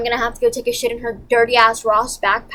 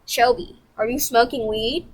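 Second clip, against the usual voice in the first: reenacted confrontation. Confronting Shelby in the bathroom, reenacted accusing question. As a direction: act out catching her in the act. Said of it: "I'm gonna reenact it for you".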